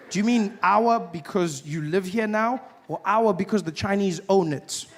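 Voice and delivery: ordinary talk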